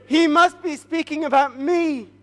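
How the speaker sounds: lifted pitch, pleased with himself; self-satisfied. Acted. Haman sure the king means him, self-satisfied. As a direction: preen as if it's all about you.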